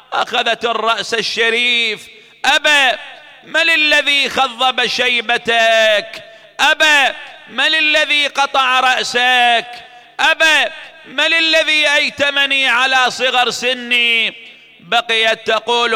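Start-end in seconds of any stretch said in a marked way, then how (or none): 2.4-14.3 mourning lament. Acted. Orphan girl calling to her father's head, grieving cries. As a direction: cry out to the father in grief.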